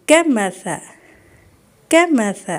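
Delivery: کمثل with soft ث, never کماسا; soft tha in کمثل. Shown as a demonstration. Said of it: "یہ بھی سا ہے". (کمثل میں ث نرمی سے، س نہیں)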